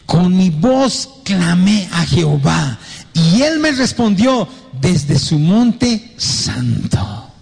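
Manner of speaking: slow, solemn psalm reading; scripture reading. Acted. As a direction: read the verse slowly and reverently. Reads a psalm slowly.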